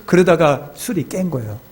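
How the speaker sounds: usual speaking voice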